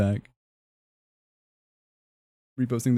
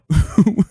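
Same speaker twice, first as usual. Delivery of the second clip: high cackle; 11 semitones higher, 9 dB louder than usual. Real, not acted. Laughing at own joke.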